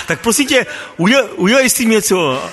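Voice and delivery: pleading prayer aloud. Retold or imitated. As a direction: plead with God like he's right there. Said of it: "tak jsem si dovolil mluvit nahlas".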